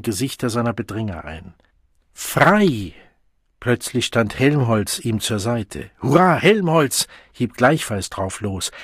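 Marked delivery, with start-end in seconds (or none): 2.1-2.9 shout. A narrator's reading. Der Wilde ruft in der Schlacht. 6.0-7.1 cheer. A narrator's reading. Jubelruf mitten im Kampf.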